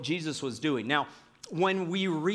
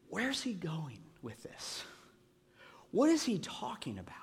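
puzzled disciples; 2 semitones higher, 7 dB quieter than usual. Retold or imitated. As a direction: whisper it like a baffled listener. Disciples puzzled by Jesus' story.

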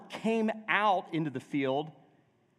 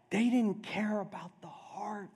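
breathy stage whisper, pointed; whispered aside; 5 semitones higher than usual. Real, not acted. Preacher whispering a verdict on the Pharisees to the congregation. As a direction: drop to a whisper for the sting.

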